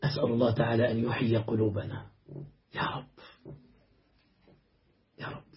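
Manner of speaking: low, hushed prayer; murmured plea to God; quiet supplication. Real, not acted. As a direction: pray softly and low, pausing before each plea. Closing supplication after the reproach.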